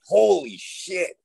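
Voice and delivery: slow, high stunned gasp of shock; a mock jaw-drop; holy shit. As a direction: drag it out in disbelief. Shocked at learning NDA is contract.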